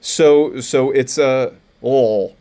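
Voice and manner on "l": "l" voiced as a vowel-led "ul" noise; schwa sound demo. Shown as a demonstration. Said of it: "type of noise".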